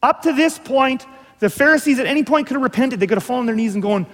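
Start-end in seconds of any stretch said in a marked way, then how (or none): 0.0-3.0 higher, more insistent repetition; earnest preacher building to a peak; rising urgency. Acted. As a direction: press the point harder each time. Repeats the phrase, climbing.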